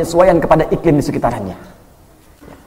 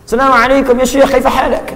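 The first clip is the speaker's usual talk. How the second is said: higher-pitched imitation of an Arab speaker; Arab accent; 4 semitones higher than usual. Preacher showing Indonesians can sound Arab, imitated Arab accent. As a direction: greet like an Arab native. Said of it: "bisa seperti orang Arab".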